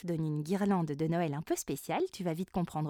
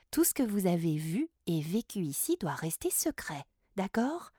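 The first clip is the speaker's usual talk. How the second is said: gentle fairy queen; 3 semitones lower than usual. Acted. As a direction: speak kindly as a fairy queen.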